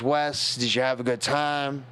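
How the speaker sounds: lightly imitated gruff Texan uncle; a hint of gruff Texas accent. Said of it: "In his gruff Texan accent".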